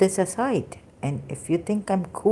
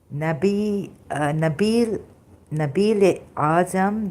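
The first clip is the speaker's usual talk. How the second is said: ordinary talk, nothing marked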